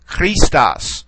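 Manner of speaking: Christos with the accent marked, falling at the end; accented syllable. Shown as a demonstration. Teacher pronouncing the word by its accent mark, stressed Christos. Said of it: "accent that particular syllable when we're pronouncing".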